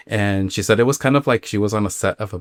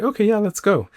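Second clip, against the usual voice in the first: mock eager agreement; 12 semitones higher than usual. Friend agreeing in acted dialogue.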